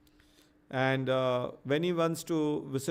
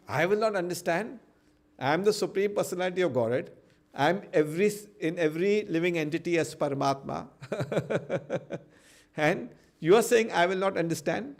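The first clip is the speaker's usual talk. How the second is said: higher, louder mock-indignant god; indignant Krishna; 4 semitones higher, 4 dB louder than usual. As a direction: protest like an offended lord, pitched up. Krishna indignant at being doubted.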